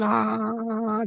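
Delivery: high, drawn-out "ah"; imitated baby wail. Father showing how the screaming baby's tongue goes, mock wail. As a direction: mimic a crying baby's wail. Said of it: "tongues are doing".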